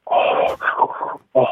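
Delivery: slurping hot ramen, mouth full; talking through a mouthful of hot noodles; mouth full of hot food. Retold or imitated. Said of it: "라면 먹는 소리 한번 내보겠습니다".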